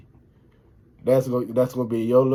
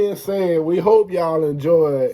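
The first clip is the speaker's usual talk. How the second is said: loud, higher-pitched sign-off; raised, excited vlogger voice; yelling; 6 semitones higher, 5 dB louder than usual. Real, not acted. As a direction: belt out the outro to the viewers. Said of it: "Stop yelling".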